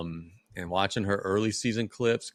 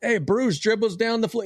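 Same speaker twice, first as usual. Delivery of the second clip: higher excited play-by-play; play-by-play call; 11 semitones higher than usual. Retold or imitated. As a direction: call it like a game on the radio. Retells calling game into phone.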